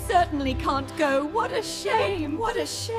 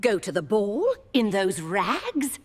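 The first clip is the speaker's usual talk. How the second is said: scornful, sneering put-down; mocking stepmother; 2 semitones lower than usual. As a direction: sneer down at her. Stepmother mocks Cinderella.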